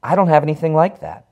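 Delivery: high, loud desperate denial; panicked cry. Acted. Harry insisting to the featureless man, high panicked cry. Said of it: "he cries".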